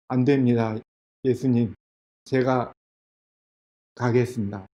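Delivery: low, soft acted surrender; hushed, resigned reply; subdued. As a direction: give in quietly, voice dropping away. Peter gives in to Jesus.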